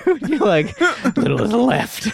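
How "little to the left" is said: high laughing mock shout; laughing request. To friend scratching his itch, high laughing call. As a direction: crack up while asking.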